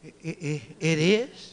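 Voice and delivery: deflate into mock fear; sudden fright. Patient shocked by the doctor's news, stammering in fear.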